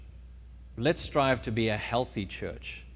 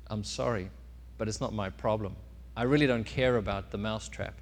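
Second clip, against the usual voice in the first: lower, softer dismissive reply; unsympathetic cow; 4 semitones lower, 5 dB quieter than usual. Acted. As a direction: decline with mild, unbothered indifference. Cow declines to help.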